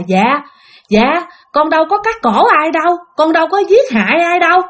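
giọng cao hơn, hoảng hốt xin tha; sợ hãi van nài. Acted. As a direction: run sợ chối tội với hồn ma. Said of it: "cô rất là sợ hãi, cô hoảng hốt". (giọng hoảng sợ, van xin)

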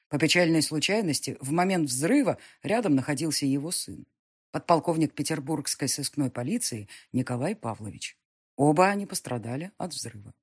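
formal newspaper announcement read; news report reading. A narrator's reading.

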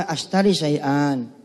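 slow drilled Arabic phrase; slow demo. Shown as a demonstration. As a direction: say it slowly so they copy. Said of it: "Bilang aja". (contoh pelan)

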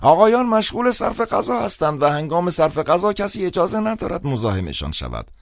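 put-on high, loud old priest announcing. A narrator's reading. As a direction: raise the voice over the room. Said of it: "با صدای بلندتری گفت".

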